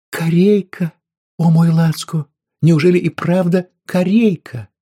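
woman finds pork loin, squealing with joy; ecstatic squeal. Acted. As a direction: shriek with joy over the pork.

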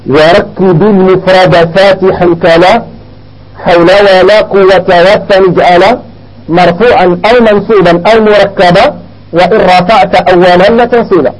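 slow, measured chanting of grammar verse; verse recitation. Shown as a demonstration. Teacher dictates Alfiya verses to students, slow recitation. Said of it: "اكتبوا واحد جوج ديال الأبيات".

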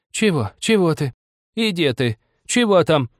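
put-on high, falling old-woman voice; muttering old woman. A narrator's reading. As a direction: grumble in short high bursts from bed. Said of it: "забормотала старуха на своей кровати".

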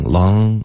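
LONG ending in a back-nasal ng. Retold or imitated. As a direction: imitate the slip, LONG with no tongue-tip n. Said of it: "你用的是一个后鼻音". (“long”读成后鼻音)

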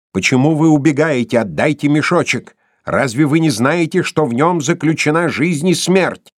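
villain's angry outburst; angry demand. A narrator's reading. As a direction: demand it back angrily. Erik demands the bag back.

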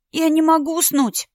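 put-on a little girl's high whine through a yawn; sleepy child. Tasya at the kitchen door, yawning high-pitched child. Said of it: "зевнула она".

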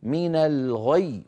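من الغي slow with a pressed doubled ي at the end; stressed stop. Shown as a demonstration. Teacher demonstrating the doubled stop. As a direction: lean hard into the final ي of من الغي. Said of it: "اسمعوني جيدا".

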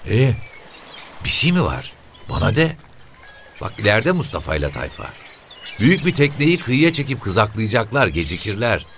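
put-on high, brisk old woman's voice; quick, nosy old mother. A narrator's reading. Mother telling the officer where her sons are, high and quick.

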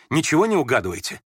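ordinary delivery

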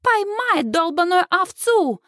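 high, slow mocking British accent; boys' high British-accent taunt; mimicked British accent. A narrator's reading. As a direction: parrot it slowly, aping a British accent. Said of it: "идеально копируя британский акцент".

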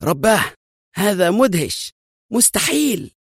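amazed cry, climbing high; excited exclamation. A narrator's reading. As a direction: gasp it out in disbelief. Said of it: "صاح شيمون في انفعال".

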